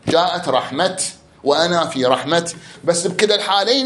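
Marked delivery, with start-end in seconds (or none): 0.1-1.0 "رحمة" تنتهي بتاء ساكنة: رحمت; اختم "رحمة" بتاء ساكنة; وقف بالتاء. Shown as a demonstration. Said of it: "لأن تقف". 1.4-2.5 "رحمة" تنتهي بتاء ساكنة: رحمت; اختم "رحمة" بتاء واضحة; وقف بالتاء. Shown as a demonstration. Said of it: "لأن تقف".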